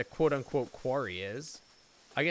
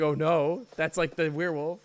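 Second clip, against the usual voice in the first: mock fright; 3 semitones higher, 7 dB louder than usual. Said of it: "I was like".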